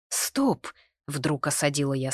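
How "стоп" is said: sharp high "Стоп!"; a sudden inner halt; sudden stop. A narrator's reading. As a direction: cut yourself off abruptly. Sudden self-interruption.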